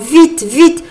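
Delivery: high, urgent command; urgent hurrying. A narrator's reading. Frog fairy rushing Marguerite to dress her, urgent. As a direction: hurry the helper along.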